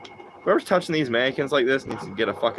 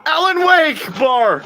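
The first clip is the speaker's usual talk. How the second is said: much higher and louder, drawn out slowly; stretched, hammed-up yell of the name; excited shout; 7 dB louder, much slower than usual. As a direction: belt it out like a hype callout. Calling out game reference.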